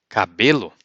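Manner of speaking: Cabelo as ka-BE-lo, falling; Portuguese cabelo. Shown as a demonstration. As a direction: model word Cabelo. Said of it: "you say cabelo".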